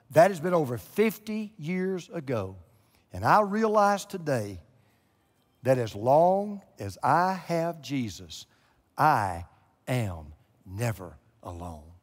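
put-on an old woman's testimony told with reverence; quoting her testimony. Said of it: "I'm quoting her".

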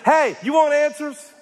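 lightly voiced indignant God calling someone out; God challenging Job. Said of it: "and God says".

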